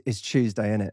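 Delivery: East London Cockney catchphrase; homely East End Cockney; Cockney accent. Shown as a demonstration. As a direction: say it as a Cockney, "Tuesday" as Chewsday. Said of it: "the Cockneys".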